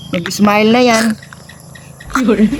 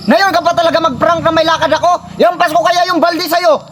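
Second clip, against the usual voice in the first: higher, fake-angry scolding; mock anger; 4 semitones higher than usual. Brother scolds the prankster who soaked him, in mock anger. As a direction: play the angry wet brother. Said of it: "Kunyari lang galit ako".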